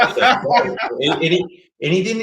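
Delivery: words breaking into a high laugh; giggling mid-story. Real, not acted. Laughing while retelling the story.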